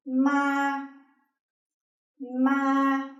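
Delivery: "ma" held long and level at a high pitch; high flat tone. Shown as a demonstration. Vietnamese teacher demonstrating the first tone, high and flat. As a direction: say "ma" on one steady high note, no fall. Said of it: "high and flat tone".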